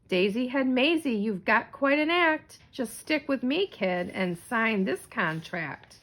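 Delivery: lightly voiced smooth-talking agent; slick agent. Agent smoothly pitching Maisie a contract, lightly voiced slick. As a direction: sell it like a wheeler and dealer. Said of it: "a voice sometimes loud sometimes slick".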